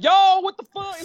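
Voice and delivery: high, loud retold outburst; exasperated street yell. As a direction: holler it in brash exasperation. Contrasting own slang with formal English.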